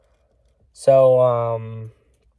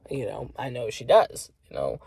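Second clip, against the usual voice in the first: whispered aside; 2 semitones lower, 5 dB quieter than usual. Real, not acted. Aside about Tessa being snitch.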